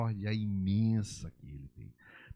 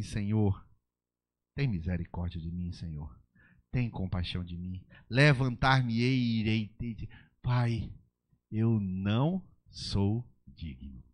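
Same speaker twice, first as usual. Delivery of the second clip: humble prayer; slower than usual. Acted. Sinner praying to the Lord, humble and pleading. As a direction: beg for mercy humbly. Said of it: "Você para e fala assim".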